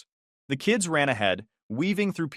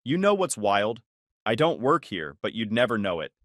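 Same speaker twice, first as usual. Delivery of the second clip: sarcastic; 2 semitones lower than usual. Acted. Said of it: "not even catching the sarcasm".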